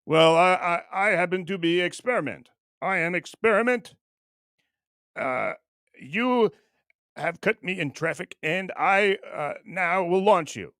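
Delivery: put-on halting, half-hearted Russian accent; horrible Russian accent. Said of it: "That's a horrible Russian accent".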